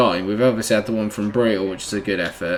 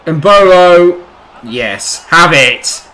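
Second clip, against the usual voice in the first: loud, high shout of joy; excited goal cheer; 5 semitones higher, 8 dB louder, much slower than usual. Real, not acted. Gamer celebrating his own goal, loud. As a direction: yell it as the ball goes in.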